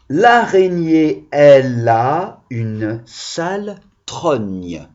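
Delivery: slow sing-song rhyme; slow recitation. Shown as a demonstration. Teacher rereading the rhyme for children, slow. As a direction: drag out each word for the children. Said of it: "écoutez bien".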